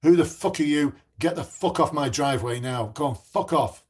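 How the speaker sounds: a retold angry man's loud shout, fading after the first line. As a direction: bark it at the officer, then ease off. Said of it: "is shouting at you".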